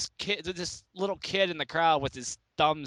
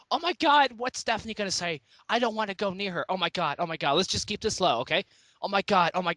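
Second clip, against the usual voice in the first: mock dramatic panic; faster than usual. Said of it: "being the overly dramatic bitch".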